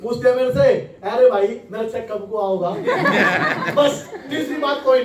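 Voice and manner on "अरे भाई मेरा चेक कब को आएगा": a touch of rural Haryanvi mother; Haryanvi accent. Retold or imitated. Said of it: "Haryanvi भाषा में ना?".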